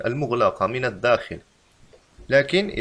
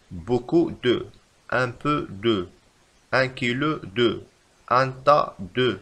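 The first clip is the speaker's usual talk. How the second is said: slow teacher example; much slower than usual. Shown as a demonstration. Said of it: "مثلًا".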